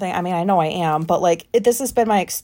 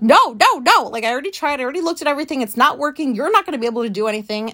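a raised, higher burst of no no no that settles down; agitated refusal; 4 semitones higher, much faster than usual. Retold or imitated. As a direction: wave her off, half-yelling at first. Refusing wife's help, upset.

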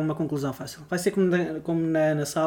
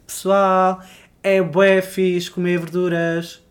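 slow, preachy self-help guru; slow, like a cheesy motivational coach; life coach voice; 5 dB louder, much slower than usual. Pretend. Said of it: "virar a minha vida para life coach".

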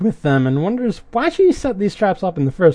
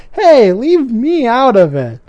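higher, louder quip from the fire; fire spirit voice; 6 semitones higher, 5 dB louder than usual. Retold or imitated. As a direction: pop up high to dodge the fight. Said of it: "and the face in the fire says".

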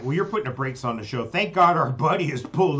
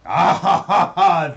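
loud booming laugh; hearty laugh; 6 semitones higher, 12 dB louder, slower than usual. Acted. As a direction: laugh big like a showman. Mystic laughs grandly.

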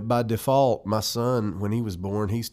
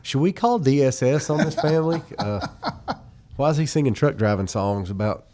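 shocked parent; 4 semitones higher, 5 dB louder than usual. Retold or imitated. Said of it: "parents of the other kids were like".

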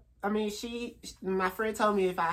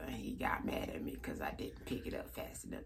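slave interview voice; 4 semitones lower than usual. Retold or imitated. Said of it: "That's how they act".

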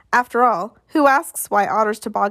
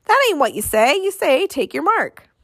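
a bystander heckling the starter, yelled high; crowd yell; 7 semitones higher than usual. Acted. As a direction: yell it out over the noise. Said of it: "crowd yelled".

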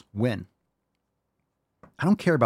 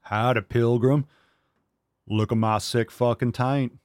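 John Wayne. Pretend. Voicing his pet as John Wayne, lightly drawled. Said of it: "He's like John Wayne".

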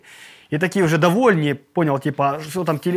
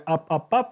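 fish gasping. Retold or imitated. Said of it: "як рибка трошки ото губами".

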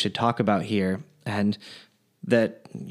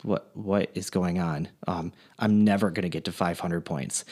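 worried, slowing down and softer; nervous; 4 semitones lower, 5 dB quieter than usual. Acted. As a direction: let the panic creep in quietly. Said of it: "Now the guy's starting to sweat".

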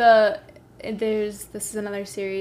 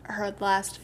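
halting, stumbling over words; stuttering. Real, not acted. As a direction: trip over the words while remembering. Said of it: "like, stuttering right now".

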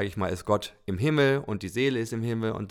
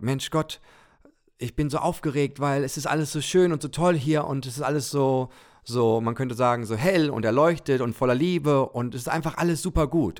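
put-on high, eager childlike soul voice; a bright-eyed little soul, breathless with joy; excited little soul; 4 semitones higher than usual. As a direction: gush about how wonderful it is up here. Little soul excitedly tells God.

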